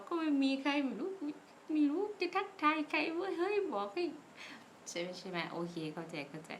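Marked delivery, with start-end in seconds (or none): 0.0-4.0 exasperated quote. Retold or imitated. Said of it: "ก็ประมาณว่า".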